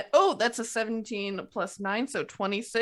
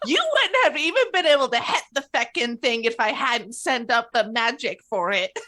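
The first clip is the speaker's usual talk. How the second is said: mad retort; 4 semitones higher, 5 dB louder than usual. Acted. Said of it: "and she's just like".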